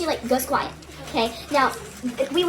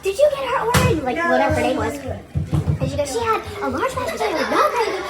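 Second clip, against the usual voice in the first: imitated screaming; 6 semitones higher than usual. Manager yelling at the drive-thru girl, high mock scream. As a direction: scream it at the worker, hammed up. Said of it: "Screaming, screaming".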